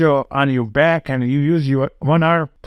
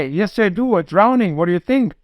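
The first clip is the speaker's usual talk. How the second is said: higher, urgent retold plea of a drowning boy; panicked plea; 6 semitones higher than usual. Drowning boy pleading to his rescuer, higher and panicky. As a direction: beg like you're going under.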